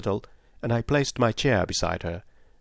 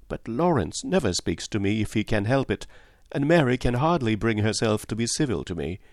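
a hint of a lively young girl; young Cynthia. Cynthia voiced by narrator.

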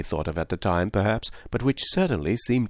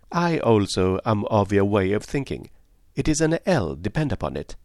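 lightly voiced Poirot. Poirot confirming the initial is an L, assured detective voice.

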